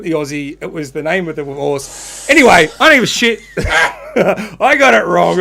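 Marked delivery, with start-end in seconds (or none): 2.3-5.4 laughing it off. Real, not acted. Laughing off his quiz mistake.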